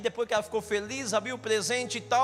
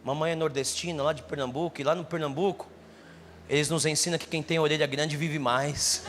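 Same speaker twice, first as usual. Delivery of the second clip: tender mother; 6 semitones lower than usual. Retold or imitated. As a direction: comfort him gently. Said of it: "acariciava meu rosto".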